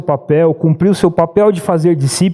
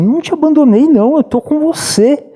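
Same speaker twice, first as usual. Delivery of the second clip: Jesus answering gently; 9 semitones higher than usual. Acted.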